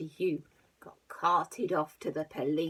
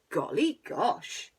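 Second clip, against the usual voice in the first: startled farmer voice; 3 semitones higher, 4 dB louder, slower than usual. Acted. Farmer wakes.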